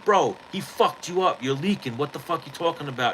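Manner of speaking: high, fast mock yell at the kid; retold yelling. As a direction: holler at him like a mocking cousin. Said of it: "my little cousin starts yelling at him".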